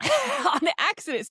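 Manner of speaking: giggling "On accident" slowly; laughing repeat. Real, not acted. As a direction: savor "On accident" with a laugh, drawn out. Repeats the phrase amused.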